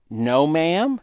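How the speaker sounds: put-on girl eagerly answering her mother; excited reply. A narrator's reading. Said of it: "Gail excitedly replied".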